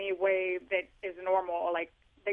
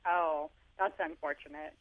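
deadpan resignation; 3 semitones lower than usual. Retold or imitated. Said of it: "And I'm like".

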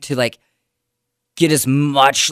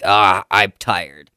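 tired inventor; 3 semitones lower, 4 dB louder, slower than usual. Retold or imitated. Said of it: "the guy who invented the bed was like".

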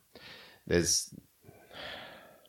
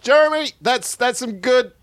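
coach voice; 10 semitones higher, 5 dB louder than usual. Acted.

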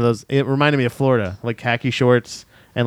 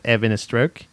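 lightly mocked British accent; a hint of put-on British. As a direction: drop the H in a mock British accent. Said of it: "British people can make sad things good".

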